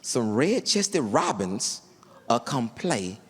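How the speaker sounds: low, slow, hushed wonder; slow and low, like sharing a secret; reverent Tim. Retold or imitated. Tim's reverent robin description.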